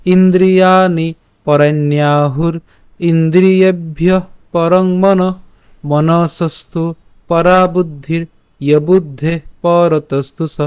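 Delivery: measured, chanted reading of a Gita shloka; Sanskrit verse recitation. Shown as a demonstration. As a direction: recite each half-line with a pause, like a teacher. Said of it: "আমি আবার বলছি".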